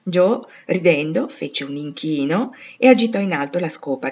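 ordinary delivery, nothing marked

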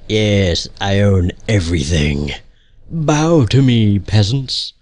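mock tyrant lording it over subjects; hammed-up power-mad mayor; power-hungry ruler. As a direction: play a puffed-up despot, stretching the command. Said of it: "people that are power hungry".

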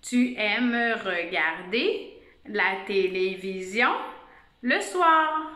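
slow, word-by-word rereading of "Tu aimes regarder la télévision le soir"; careful teacher rereading, syllables spaced out; slow dictation. Shown as a demonstration. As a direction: dictate slowly with pauses so each word can be checked. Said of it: "Écoute qu'est-ce que je dis".

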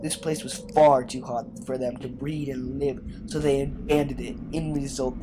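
lightly dramatic lore narration; story reading. Acted. Old guide telling the player the realm's history, mildly dramatic reading. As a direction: read aloud as a solemn old guide, understated.

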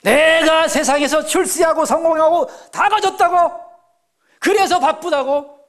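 high, loud parody of a braggart; mock boasting. Preacher mimics the too-busy achiever, loud high mock boast. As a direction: crow about worldly success, mockingly overblown. Mocks worldly boaster, then scoffs.

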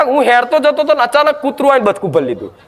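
imitating someone grumbling they got bitten; mock complainer. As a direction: rattle it off like a put-upon complainer.

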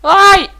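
sharp high loud yelp; pained yelp. Real, not acted. Gamer yelping as her character gets hit. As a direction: yelp as if stung.

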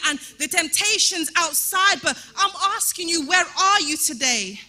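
fiery preaching. Acted. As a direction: preach it out to the whole church. Preaching at full force.

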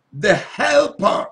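slow, deliberate weight on "helper"; preacher slowly stressing "helper". Real, not acted. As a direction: underline "helper" by stretching it out. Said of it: "underline the word".

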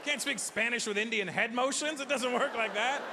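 ordinary talk, nothing marked

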